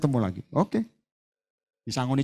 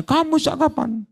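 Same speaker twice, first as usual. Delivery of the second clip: mock soft question; 9 semitones higher than usual. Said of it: "Tengking-tengking aja".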